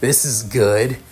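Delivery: slow, menacing creature voice with a chuckle; slime monster. Acted. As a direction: savour it like a hungry monster. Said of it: "the figure looking at Izuku saying".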